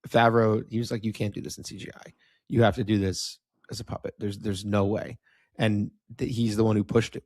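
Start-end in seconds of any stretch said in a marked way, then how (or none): 1.1-5.2 put-on German accent. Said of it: "German accent".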